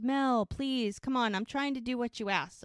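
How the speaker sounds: imitated earnest appeal; acted pleading. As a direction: plead with an exasperated partner. Acted pleading in retold scene.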